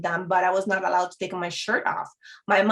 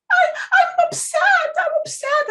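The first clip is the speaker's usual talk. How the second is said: retold crying; 4 dB louder than usual. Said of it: "And I was crying".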